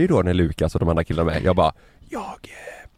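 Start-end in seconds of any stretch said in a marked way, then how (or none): 2.1-2.9 whisper. Retold or imitated. Gamer telling friends while girlfriend sleeps, re-enacted whisper. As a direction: breath-only whisper re-enacting himself. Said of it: "jag viskade".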